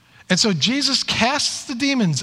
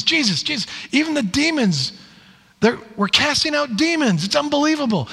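higher-pitched, mildly excited report; imitated amazement; 6 semitones higher than usual. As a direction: play disciples bursting to tell their news. Disciples return amazed, reporting to Jesus.

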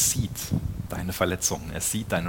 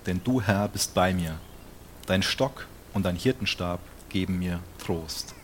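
scripture reading. Acted. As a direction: proclaim the verses to the congregation. Reads Psalm verse aloud. (laut und feierlich vorgelesene Bibelstelle)

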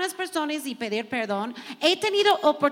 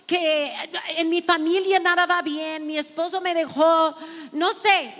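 higher, pleading lament to God; voicing despair; 4 semitones higher than usual. Preacher voicing the women's complaint to God, pleading. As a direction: give voice to a weary, hurting woman. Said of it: "¿Cuántos han sentido que".

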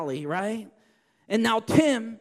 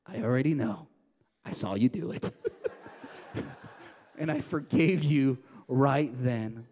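gracious grandma; 9 semitones lower than usual. Retold or imitated. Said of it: "hugged him and said".

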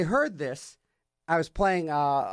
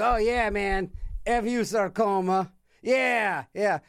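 imitated cheering supporter, higher pitch; mock gung-ho; 4 semitones higher, slower than usual. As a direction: play the pumped-up believer. Acts out everybody's gung-ho attitude.

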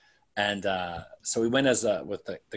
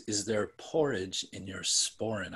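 1940s film noir voice; 5 dB quieter than usual. Retold or imitated. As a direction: purr it like a film noir siren. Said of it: "that nineteen forties film noir voice".

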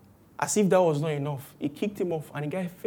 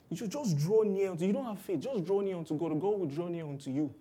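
preachy Christians; 8 dB quieter than usual. Retold or imitated. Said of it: "Or you hear".

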